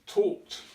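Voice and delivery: talked said as one syllable, tokt; model word. Shown as a demonstration. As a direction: say talked cleanly in one beat. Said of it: "The two regular verbs that we're going to use".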